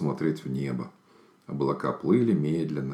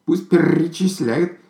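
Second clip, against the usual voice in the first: whisper; 12 semitones higher, 4 dB louder, slower than usual. Acted. Bird brushes off criticism.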